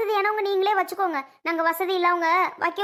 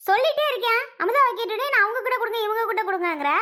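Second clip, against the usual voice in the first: raised, higher insistence; exasperated; 4 semitones higher than usual. Acted. Bride insisting the elders let Amudha go, exasperated. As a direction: push it, fed up with being ignored. Repeated request ignored in quarrel.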